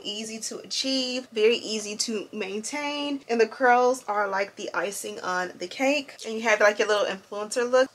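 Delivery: talking while chewing gum. Real, not acted. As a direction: speak around a piece of gum. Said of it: "Also, excuse the gum".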